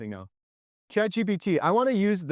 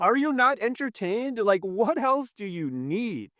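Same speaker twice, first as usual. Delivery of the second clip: higher, rousing rhetorical questions to the doubters; rhetorical challenge; 5 semitones higher than usual. Real, not acted. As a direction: challenge the skeptics, pitch rising.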